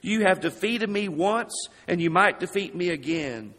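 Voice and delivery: shouted defiance at a mountain; calm turning angry. Retold or imitated. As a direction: call out to the mountain, rising to a shout. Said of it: "he shouted to this picture of Mount Everest".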